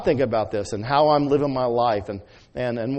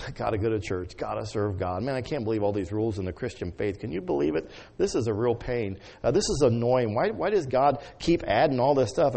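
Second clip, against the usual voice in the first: grumbling parent; 5 dB quieter than usual. Retold or imitated. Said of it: "our attitude is".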